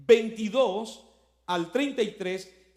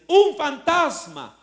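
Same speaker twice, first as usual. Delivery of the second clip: higher, louder, slower scared cry; frightened cry; 6 semitones higher, 8 dB louder, slower than usual. A narrator's reading. Disciples seeing Jesus on the water, scared loud cry. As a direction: cry out in fright at a ghost on the sea. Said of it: "se pusieron a gritar llenos de miedo".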